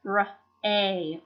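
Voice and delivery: "r, a" as separate sounds with long a; sounds separated. Shown as a demonstration. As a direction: sound out "r, a" one sound at a time. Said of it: "making the first syllable long".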